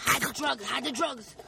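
hammed-up panicked whisper-shout; mock panic. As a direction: play a mock drug-deal panic. Joking about police behind them.

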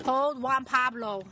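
slow and loud, drawn out; slowly and loudly; loud slow command. Real, not acted. Handing over a device.

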